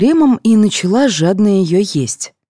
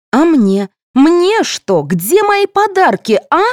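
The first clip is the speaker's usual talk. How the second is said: demanding whine; 9 semitones higher, slower than usual. A narrator's reading. Alisa demanding her gifts.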